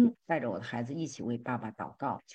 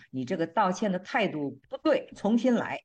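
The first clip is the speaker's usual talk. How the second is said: louder and higher, curt order; stern demand; 5 semitones higher, 4 dB louder than usual. Retold or imitated. Husband refusing his wife's apology, curt loud order. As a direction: send the apology back, make her redo it.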